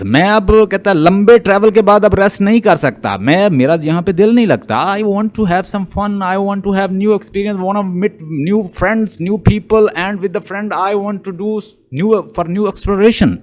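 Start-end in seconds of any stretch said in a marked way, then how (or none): 5.0-13.4 slow, higher-pitched declaiming; slow recitation. Acted. Lecturer voicing Ulysses' wish for new experience, slow recitation. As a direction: declaim each wish slowly in English.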